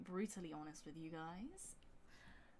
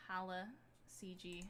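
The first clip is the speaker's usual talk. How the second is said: put-on American accent; 3 dB quieter than usual. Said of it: "like, an American accent".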